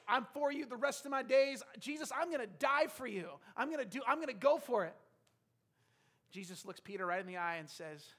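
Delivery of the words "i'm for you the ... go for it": loud, high, all-in pledge; impassioned acted declaration of devotion; fervent vow. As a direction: pile up promises with rising zeal. Acts out Peter's vow to Jesus.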